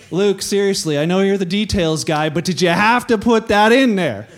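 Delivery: complaint building to a loud finish; mock exasperation. The speaker grumbling to Luke in heaven, mock exasperated.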